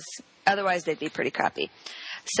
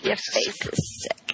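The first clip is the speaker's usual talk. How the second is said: very high, slow squeal; squeaky high voice; much slower than usual. Pretend. Echoing own line, exaggerated.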